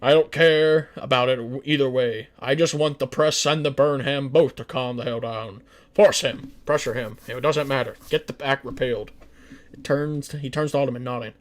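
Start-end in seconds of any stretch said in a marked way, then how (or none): 0.0-9.1 loud, firm presidential orders; commanding president. Acted. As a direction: bark the orders down the table. Nixon commanding the cabinet.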